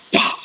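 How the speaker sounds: slap sound. Shown as a demonstration. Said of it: "With aloha".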